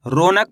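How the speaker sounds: "रौनक" said as ro-nak; wrong "o" vowel. Shown as a demonstration. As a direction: say "रौनक" with a single o, no au glide. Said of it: "ओ की मात्रा का उच्चारण निकल जाएगा".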